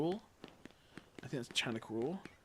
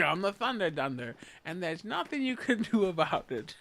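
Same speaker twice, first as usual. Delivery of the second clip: mock boastful gamer; 7 semitones higher, 6 dB louder than usual. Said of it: "I was like".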